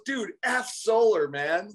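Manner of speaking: high, slow mock homeowner; blunt brush-off. Homeowner at the door brushing off the solar salesman, mock gruff. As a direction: toss off a blunt no, dragged out.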